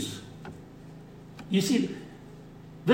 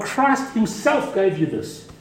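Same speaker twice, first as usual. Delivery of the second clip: "Christ himself" stressed, slowed, falling; emphatic; 3 semitones higher, slower than usual. Shown as a demonstration. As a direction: press hard on "Christ himself". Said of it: "It's emphatic".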